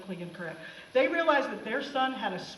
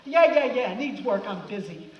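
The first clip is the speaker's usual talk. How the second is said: dismissive Santa; 2 semitones lower, 4 dB louder than usual. Retold or imitated. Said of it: "Santa cuts him off and says".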